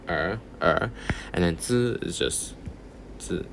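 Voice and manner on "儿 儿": 儿 repeated with a rising tone; second tone. Shown as a demonstration. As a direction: let each 儿 climb in pitch. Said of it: "Second tone".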